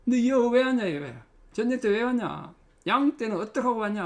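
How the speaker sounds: put-on older brother rebuking David, angrily; angry older brother. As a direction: scold the kid brother for showing up. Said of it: "노를 바라며 이르되".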